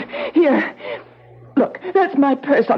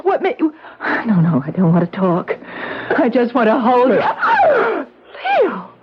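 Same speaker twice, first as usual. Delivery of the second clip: tearful reunion; 2 semitones higher than usual. Acted. Wife's emotional reunion.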